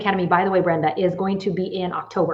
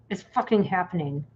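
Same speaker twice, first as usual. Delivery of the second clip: fighting back tears of joy; quietly crying with relief; choked up; 5 dB quieter than usual. Real, not acted. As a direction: voice catching with happy tears. Overjoyed at long-awaited news.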